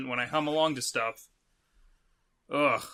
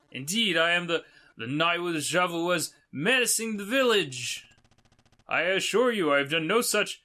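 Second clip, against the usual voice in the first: lightly voiced formal knight, higher pitched; knight character; 4 semitones higher, 4 dB louder than usual. Knight answering the traveller's accusation, lightly acted heroic voice. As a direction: play a touch of a stately hero. Voicing the knight in game dialogue.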